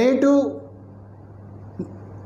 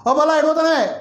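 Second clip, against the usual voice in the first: put-on a light old villager voice pitched higher; a hint of a rustic old man calling; village old man; 7 semitones higher, much faster than usual. Shown as a demonstration. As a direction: call out to the girl like a lightly voiced village elder. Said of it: "a village old man, suppose he wants to ask".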